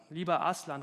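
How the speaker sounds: calling out. Acted. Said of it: "rief Lucy".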